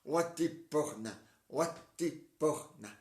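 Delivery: slow, loud mock incantation; drawn-out backwards-talk chant; backwards gibberish. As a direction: chant the nonsense words slowly like a spell. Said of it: "je dis n'importe quoi à l'envers".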